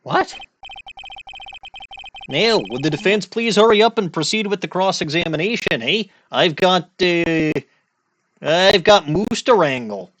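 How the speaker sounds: light mock Canadian accent, impatient; Canadian judge. Judge hurries the defense along, mock Canadian accent.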